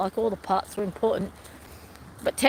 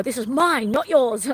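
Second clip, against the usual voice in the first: firm telling-off to dogs; 3 semitones higher, 3 dB louder than usual. Shown as a demonstration. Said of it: "I go".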